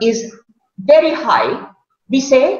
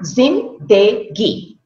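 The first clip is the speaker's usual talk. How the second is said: slowly; much slower than usual. Shown as a demonstration. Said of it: "three parts in that word".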